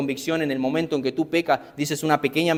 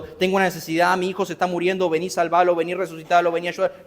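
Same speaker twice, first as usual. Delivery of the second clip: pleading woman; 4 semitones higher than usual. Acted. Voicing the woman's imagined plea.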